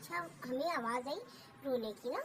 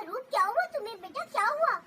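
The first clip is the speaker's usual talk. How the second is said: alarmed worry; 8 semitones higher, 8 dB louder than usual. Retold or imitated. Aunt asks crying girl what happened.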